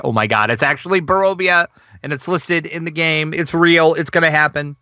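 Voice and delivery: mildly hammed-up excited gushing; retold freak-out. Host retelling their reaction to the game listing, mild freak-out. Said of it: "freaking out 'cause I'm like".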